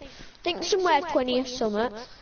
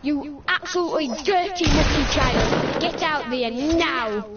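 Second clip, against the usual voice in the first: mock teacher telling off. Kid mimics teacher scolding a mucky child, mock angry.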